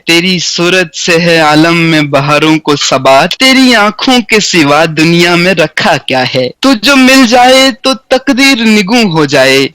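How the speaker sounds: measured, stately Urdu verse reading; poetry recitation. Shown as a demonstration. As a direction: recite each line like a mushaira verse. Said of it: "پڑھت کے انداز میں آپ سنیے".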